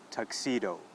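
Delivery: "tuxedo" ending on a full oh; final O pronounced. Shown as a demonstration. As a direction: repeat tuxedo as a model, final o sounded. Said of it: "That's right".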